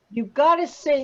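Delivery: ordinary talk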